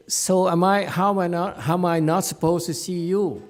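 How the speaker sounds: high, insistent questioning; acted baffled protest. Continues acted protest to monk.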